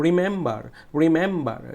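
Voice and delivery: রিমেম্বার with a firm "mem"; stressed middle syllable. Shown as a demonstration. Teacher drilling students, forceful "mem" in রিমেম্বার. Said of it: "জোরে বলতে হয়েছে".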